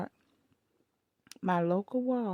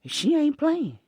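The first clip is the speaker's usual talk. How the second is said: granddaddy agreeing; 6 semitones higher, 5 dB louder than usual. Retold or imitated. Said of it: "granddaddy told him, said".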